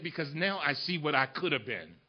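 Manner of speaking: very soft, low father's voice; retold hushed confession. Father confessing lost chances to his son, hushed. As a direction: let it sink, quiet and low.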